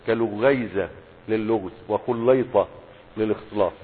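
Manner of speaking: كلغيزة and وخليطة said slowly with clear u-a vowels; careful pronunciation. Shown as a demonstration. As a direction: spell out لغيزة as lu-ghay-ya-za. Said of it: "انتبهوا للنطق يا شباب".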